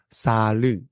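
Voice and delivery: "salut" said as sha-lü; Mandarin pronunciation. Shown as a demonstration. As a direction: end "salut" on a rounded ü. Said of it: "The Mandarin word for salad is".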